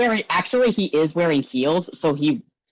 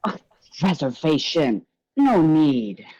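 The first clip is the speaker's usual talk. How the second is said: showman scoffing; 3 semitones higher than usual. Acted. Gallagher waves off reservation.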